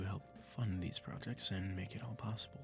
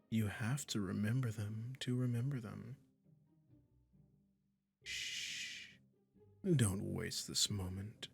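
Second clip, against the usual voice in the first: slow, drawn-out coaxing with lingering pauses; lightly hammed-up sweet, condescending captor; doting, possessive magician; 5 dB louder than usual. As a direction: coo smugly to your new pet kitty. Magician soothing listener turned cat.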